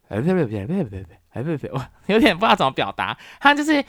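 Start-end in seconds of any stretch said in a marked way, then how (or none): 0.1-1.9 rough mock New York accent as gibberish. Attempting to show how New Yorkers talk, mock New York accent. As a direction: mumble nonsense syllables in an imitation New York accent. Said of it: "像纽约的人的口音就是".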